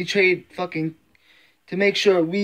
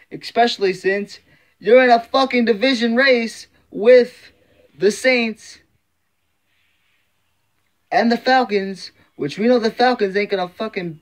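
louder, higher fed-up fan rant; heated rant; 4 semitones higher, 4 dB louder than usual. Real, not acted. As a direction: vent at the team, voice climbing. Fan ranting about a trade.

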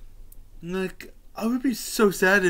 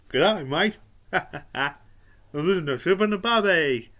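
put-on Australian accent. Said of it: "impersonating some of his characters".

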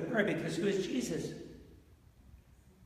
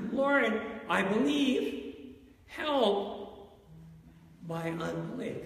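pleading prayer; slower than usual. Retold or imitated. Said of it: "like that other disciple".

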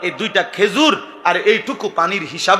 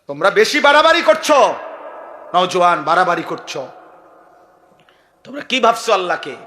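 stern scolding sermon; preaching rebuke. Acted. Preacher scolding the young men, stern rebuke. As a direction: chide the young men in earnest.

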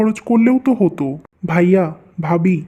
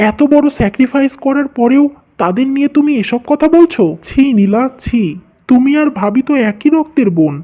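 angry reproach; 4 semitones higher than usual. Acted. Husband rebuking wife for insulting his family, angry and disgusted. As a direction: shame her with rising anger. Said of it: "তোমার সাথে কথা বলতেও আমার খুব রাগ হচ্ছে".

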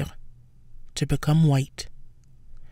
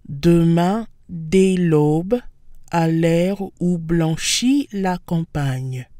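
dramatic reading; much slower than usual. Shown as a demonstration. Teacher performing the poem's opening line dramatically. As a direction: recite it slowly and grandly. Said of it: "my dramatic reading".

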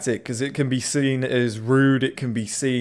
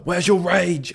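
higher and louder, pushing the line up; going up at the end; 6 semitones higher, 3 dB louder, slower than usual. Retold or imitated. Imitating Butcher, the taunt rising higher and louder. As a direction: lift it up, rising with force. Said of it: "And then going up at the other end".

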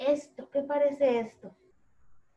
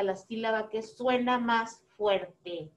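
slow emphasis; 3 semitones lower, 4 dB quieter, slower than usual. Shown as a demonstration. Teacher stretches words explaining stress.

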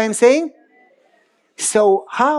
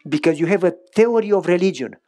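put-on old grandfather; 5 semitones lower than usual. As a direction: speak as the wise old grandpa. Grandfather voiced in story.

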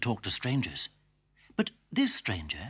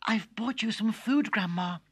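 put-on little girl voice; 10 semitones higher than usual. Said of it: "said Little Red Riding Hood".

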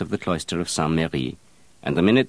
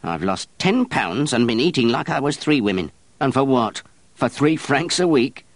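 bitter snarl, rising and louder; 7 semitones higher, 4 dB louder than usual. Acted. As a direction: spit it back at him, indignant. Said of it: "the wet nurse snarled back".

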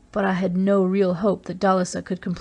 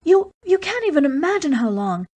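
Dalisa's proud outburst; 8 semitones higher than usual. A narrator's reading. Dalisa defending the Dry Towns to Race, fierce and proud. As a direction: push the pride and fury of an old people.

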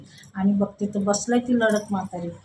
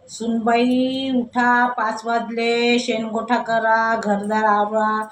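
mother-in-law calling out; slower than usual. Retold or imitated. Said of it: "असं सासू ओरडायला लागली".

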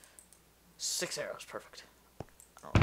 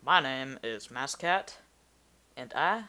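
put-on southern accent; 3 dB louder, slower than usual. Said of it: "why am I just talking like a southern person".

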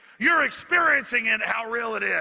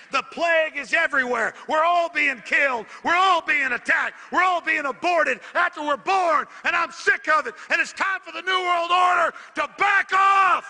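building angry rant; 5 semitones higher than usual. Real, not acted. Building rant against New World Order.

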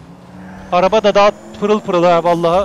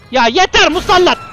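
loud, high outburst; exasperated shout; 8 semitones higher, 6 dB louder than usual. Real, not acted. Gamer fed up with a pestering player, exasperated shout. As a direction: shout that you've had enough.

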